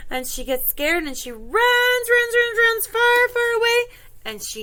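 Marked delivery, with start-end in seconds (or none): 1.5-3.8 high, loud, breathless-sounding chase telling; urgent narration. A narrator's reading. Storyteller as Goldilocks flees the bears, excited urgency. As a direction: hurry the escape along excitedly.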